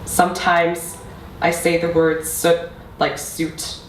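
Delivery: measured recital with long pauses; spoken-word poetry. Acted. Poet addressing mother about a lost language, measured spoken-word delivery. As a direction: let each line land before the next. Recites own poem to audience.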